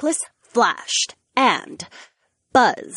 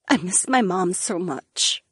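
tearful; 4 semitones lower than usual. Acted. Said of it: "started to sob silently".

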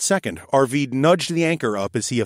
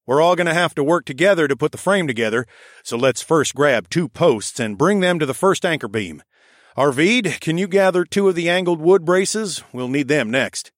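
higher bossy raccoon foreman; raccoon architect voice; 5 semitones higher, 4 dB louder than usual. Acted. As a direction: direct the crew like a brisk little foreman. The speaker voiced as a character.

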